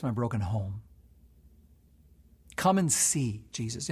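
low, hushed pleading prayer. Acted. Pastor leads hurting listeners to invite Jesus into their pain, hushed prayer.

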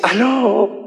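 lightly voiced wife picking up; wife answering phone. Wife answers husband's call from home, drawn-out hello. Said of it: "me contesta una voz y me dice".

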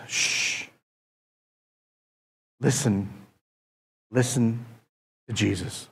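whispered hush. Retold or imitated. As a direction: hush them to listen. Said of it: "And that's when God says".

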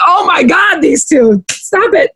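high, fed-up groan at the couple; exasperated. Retold or imitated. Viewer telling the flirting couple to quit, mock exasperated.

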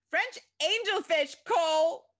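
high, furious full shout; yelled. A narrator's reading. Chrissy yells at Cole in a hushed restaurant, furious shout. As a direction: scream it across the whole restaurant. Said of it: "she yelled".

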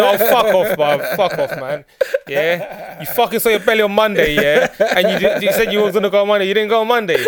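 laughing while telling a friend off; loud and laughing, teasing a mate. Real, not acted. Mocking friend about skipped gym.

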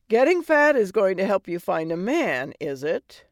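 brash, mocking fairy godmother; sassy godmother voice. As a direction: tease her like a sarcastic old fairy. Fey godmother mocks Cinderella.

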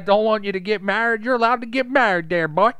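high, loud, laughing through words. Real, not acted. Cracking up at his own joke to a friend, laughing. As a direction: crack up while finishing the joke.

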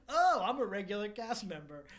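loud, slow ditzy wail; mock a scatterbrained woman, laughing. Mocking ditzy Caitlin.

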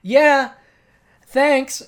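loud, high mock politeness; exaggerated high-pitched girlfriend voice; dismissive girlfriend impression. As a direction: chirp it brightly as a brush-off. Imitates girlfriend brushing off saleswoman.

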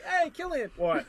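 high, teasing mock challenge; mock confrontation. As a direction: taunt the kid playfully. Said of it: "you're like".

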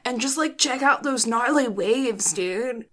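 a hint of SoCal surfer dude; SoCal impression. Co-host imitating the other host, mock SoCal surfer accent. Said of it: "your SoCal impression of me".

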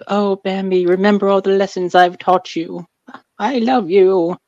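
high, frail grandma farewell; lightly voiced dying old woman.

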